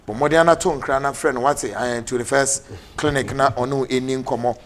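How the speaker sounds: brisk, punchy advert voice; lively sponsor read on air; radio ad read. Acted. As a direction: sell the clinic like a radio announcer. Host reads sponsor clinic ad.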